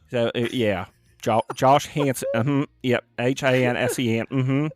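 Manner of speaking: lightly put-on Southern drawl; mock Southern phone voice. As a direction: spell it out in a faked Southern accent. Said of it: "That's your Southern voice".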